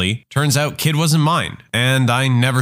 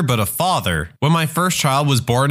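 ordinary delivery

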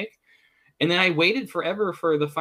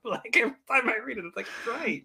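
Morgan Freeman voice; 7 semitones higher, 4 dB louder than usual. Retold or imitated. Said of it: "in the sound of my voice".

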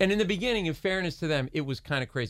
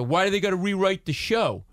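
a hint of a gruff stagehand, a bit louder; lightly voiced grumbling carpenter; imitating the union guy; 4 semitones higher, 5 dB louder than usual. Union guy grilling the writers, mildly imitated gruff voice. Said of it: "he talks like this".

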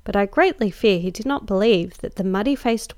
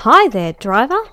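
louder call up to the driver; louder shout of "Hi there" to the cabman; 3 semitones higher, 8 dB louder than usual. Acted. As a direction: hail the driver up top. Calling up to the cab driver.

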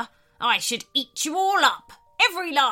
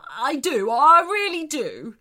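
loud, higher, emphatic vow; earnest insistence; 4 semitones higher, 8 dB louder than usual. A narrator's reading. Shark swears he will be nicer, insistent. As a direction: build to an eager, desperate assurance.

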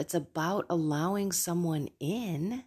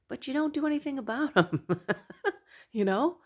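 laughing; 8 semitones higher, faster than usual. Real, not acted. Laughing at own habit.

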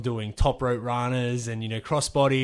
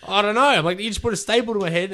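incredulous; 9 semitones higher, 8 dB louder, faster than usual. Retold or imitated. Incredulous reply to the doctor.

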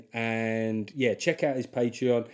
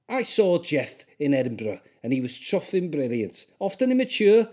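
put-on Scouse accent. Comic reading a listener's review in a put-on Scouse accent. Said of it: "I'm gonna do a Scouse accent".

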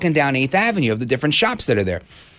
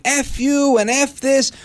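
half-voiced angry shout, pitched up; retold yelling; 8 semitones higher, slower than usual. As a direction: imitate a ranter's cursing without full volume. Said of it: "he starts yelling at that cop".

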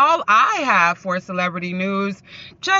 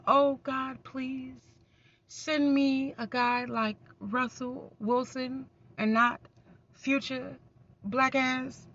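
mock prayer; 8 dB quieter than usual. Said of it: "that prayer that a singer wished for".

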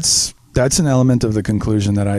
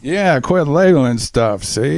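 put-on old-timey gangster voice; 3 semitones higher than usual. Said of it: "old timey gangster voice".

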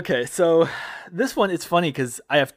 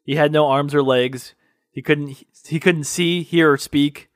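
solemn tagline. Retold or imitated. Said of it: "which is".

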